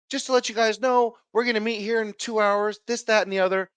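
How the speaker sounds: principal. Retold or imitated. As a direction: lightly imitate a principal making an announcement. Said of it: "the principal walks by and says".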